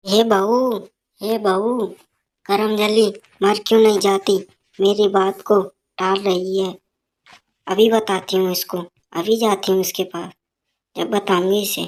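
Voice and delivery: put-on a scolding old woman calling for her tea; mother-in-law shouting for her tea, scolding; nagging mother-in-law. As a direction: bark for the daughter-in-law.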